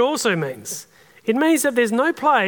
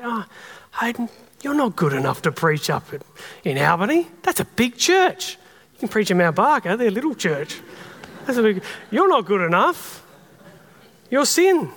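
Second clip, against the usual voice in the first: accuser voice. Retold or imitated. Pastor voicing the accuser who belittles him, mild sneer. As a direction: taunt him like a mocking accuser. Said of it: "this character, who accuses us".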